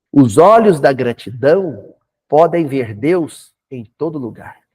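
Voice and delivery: citação lenta e solene, mais forte; declamado. Shown as a demonstration. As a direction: recite a frase como um aforismo. Cita a frase de Osho. (declamação pausada da frase de Osho)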